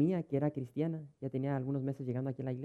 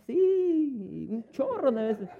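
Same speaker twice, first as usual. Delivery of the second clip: much higher, louder, woman's voice; shrill cheeky admission; 11 semitones higher, 7 dB louder, much slower than usual. Retold or imitated. Pastor imitating the woman admitting she curses her husband, high and louder. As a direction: blurt the yes with a laugh.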